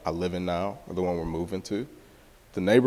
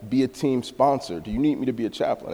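higher, louder, eager questions; eager pitch to coach; 4 semitones higher, 5 dB louder than usual. Retold or imitated. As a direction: rattle off offers keenly. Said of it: "I'm like".

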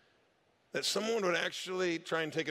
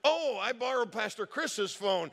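playing dumb; 5 semitones higher, 3 dB louder than usual. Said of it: "he decided to have some fun with it".

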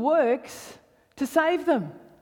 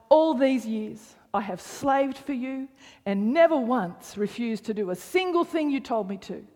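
angry complaint. Acted. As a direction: voice the brother's grievance with some bite. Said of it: "Wow, he's angry".

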